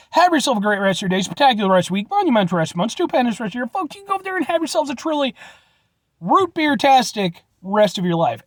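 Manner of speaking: quick, sing-song channel sign-off; sign-off patter. Acted. Host wishing viewers a great day, brisk showman sign-off. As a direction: rattle off the grand farewell wishes.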